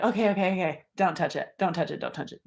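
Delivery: soft, hurried mock warning; hushed, repeated plea, acted out; overwhelmed restraint. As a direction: fend off a touch, voice dropping away. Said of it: "you get to the place where you're like".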